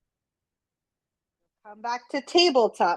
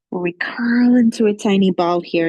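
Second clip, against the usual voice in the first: whisper; 2 semitones lower, 5 dB louder than usual. Shown as a demonstration. Teacher guiding kids into rock pose, whispering. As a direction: hush it like a secret to children.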